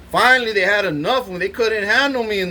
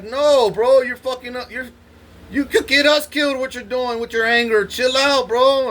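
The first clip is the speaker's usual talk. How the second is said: higher, urgent plea from a scared guard; a nervous guard urging him to calm down; pleading guard; 6 semitones higher than usual. Retold or imitated. Scared guard warns the angry inmate, pleading higher. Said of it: "So, like".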